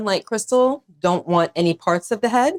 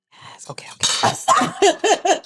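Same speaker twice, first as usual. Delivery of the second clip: whispering; 11 semitones higher, much slower than usual. Real, not acted. Whispered aside while eating.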